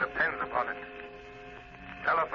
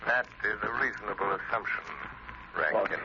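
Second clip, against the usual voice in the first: lower, smug taunting voice; mocking phantom; 6 semitones lower than usual. The Shadow taunting Rankin, low and smug. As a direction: taunt them from nowhere.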